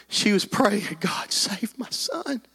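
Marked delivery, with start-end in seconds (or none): 1.0-2.4 slow, soft pleading prayer; a mother's murmured plea to God; hushed prayer. Retold or imitated. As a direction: pray quietly for your son. Mother praying for her son.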